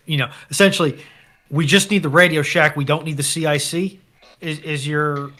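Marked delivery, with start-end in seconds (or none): none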